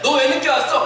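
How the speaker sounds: retold teacher's sharp demand; teacher scolding. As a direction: tell off a late pupil, acted. Teacher scolding late child, retold.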